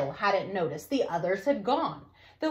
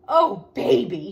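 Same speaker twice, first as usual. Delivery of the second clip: shuddering; 2 semitones lower, 6 dB louder than usual. Acted. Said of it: "he shuddered".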